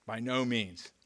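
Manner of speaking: quiet echo. Acted. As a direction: let the repeat settle quietly. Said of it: "There's an exclamation point here".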